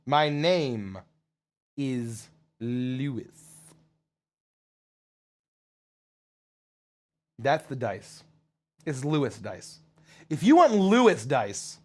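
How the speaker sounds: slow, deliberate character delivery with long pauses; lightly voiced character. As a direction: draw it out, pausing between phrases.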